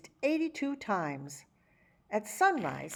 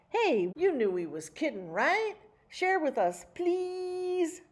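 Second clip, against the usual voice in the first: pleading brothers; 8 semitones higher than usual. A narrator's reading. Brothers beg to share.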